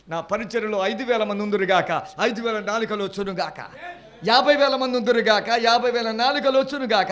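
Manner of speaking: a greedy prayer that swells into a loud cry; mock grand prayer. Mocking a preacher who prays for fifty thousand, building to loud. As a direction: start firm, then belt the last two lines.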